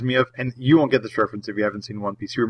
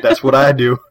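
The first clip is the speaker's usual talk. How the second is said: role; 6 dB louder than usual. Retold or imitated. Mock Black Manta boast.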